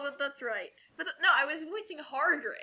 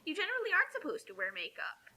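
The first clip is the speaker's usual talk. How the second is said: whisper; 3 semitones higher, 6 dB quieter than usual. Real, not acted. Whispered aside.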